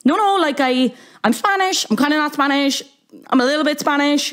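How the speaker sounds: high-pitched, flustered backpedalling; squeaky mock protest; mock defensive celebrity.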